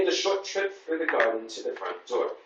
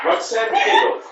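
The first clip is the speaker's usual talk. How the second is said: laughing through the line; 9 dB louder than usual. Shown as a demonstration. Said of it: "Where's the actual giggle?".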